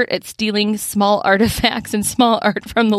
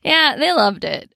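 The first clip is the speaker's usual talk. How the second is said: usual speaking voice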